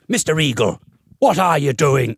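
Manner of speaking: teacher impression slipping into Cork; accidental Cork accent. Music teacher stopping the class to challenge a pupil, in a Cork accent. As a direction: imitate a stern teacher with a Cork lilt. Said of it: "I'm doing a Cork accent now".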